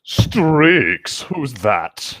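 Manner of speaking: lightly voiced mysterious vampire; a touch of mystery in the question; understated brooding Edward. A narrator's reading. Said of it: "Edward questioned as he entered the room mysteriously".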